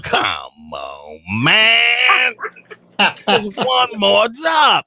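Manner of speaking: hammed-up pleading yell; begging shout. Caller begging again.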